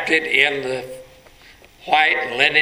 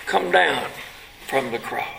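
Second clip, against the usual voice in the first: mocking crowd; 2 semitones higher than usual. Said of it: "who are mocking and scoffing".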